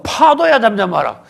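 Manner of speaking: loud command to wind and waves; acted rebuke. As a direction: order the storm to be still, punching each name. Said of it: "거다 대고 꾸짖으니까". (바람과 파도를 큰 소리로 꾸짖듯 명령)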